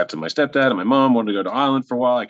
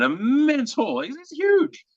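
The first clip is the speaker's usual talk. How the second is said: emphatic; slower than usual. Real, not acted. Describing immense hall.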